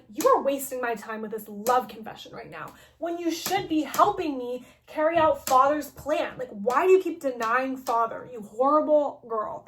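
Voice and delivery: mildly exasperated mock scolding; a touch of retold anger; kinda mad. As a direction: scold as an irritated villain, lightly acted. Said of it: "he kinda gets mad".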